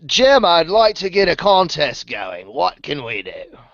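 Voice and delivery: a light hint of an Australian accent. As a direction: lightly imitate an Aussie mate asking for a contest. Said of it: "the only one who can do that accent".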